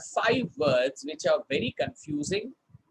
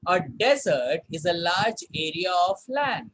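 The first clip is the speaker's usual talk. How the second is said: model sentence read. Shown as a demonstration. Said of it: "Sentence देखते हैं".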